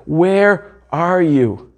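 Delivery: very slow, drawn-out plea; anguished cry. Acted. Preacher voicing Jesus crying out to his Father, anguished plea. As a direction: ask it like a son abandoned. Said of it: "He cries out to his Father".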